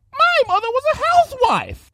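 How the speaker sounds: high, loud furious snarl. Acted. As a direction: snarl the words. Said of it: "snarled Rarity".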